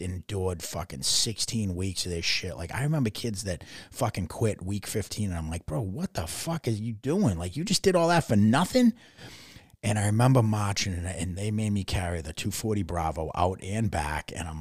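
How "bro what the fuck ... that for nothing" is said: disbelief climbing high and loud; baffled protest, building to a raised-pitch question; retold incredulity. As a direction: imitate being dumbfounded at a quitter.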